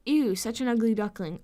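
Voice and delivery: mocking read of insult. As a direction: read her comment back with mild scorn. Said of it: "commenting on my shit".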